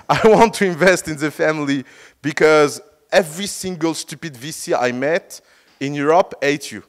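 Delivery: put-on a weak try at a Danish accent; imitating a Danish billionaire, badly. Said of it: "I don't do the Danish accent well".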